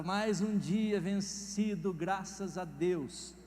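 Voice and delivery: very slow, savoring relief; slow satisfied thanks; relieved thanks. Retold or imitated. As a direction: sigh out the gratitude slowly. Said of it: "Aí você fala".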